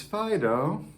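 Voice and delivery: Fido said gently with a rise; fond call. Shown as a demonstration. Owner calling the dog Fido, fondly. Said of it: "or you say your dog's name".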